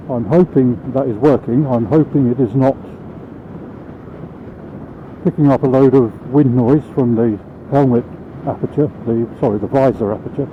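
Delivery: inside a helmet. Real, not acted. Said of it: "At the moment I'm riding along".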